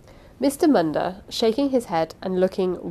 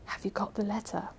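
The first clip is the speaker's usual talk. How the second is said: hushed, much softer aside; whispered question; 9 dB quieter than usual. A narrator's reading. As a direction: confidential near-whisper. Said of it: "he added in a whisper".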